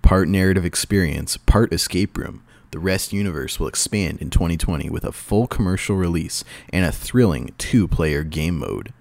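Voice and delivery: lightly dramatic trailer read; movie trailer voice. Pretend. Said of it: "do you wanna do your movie voice?".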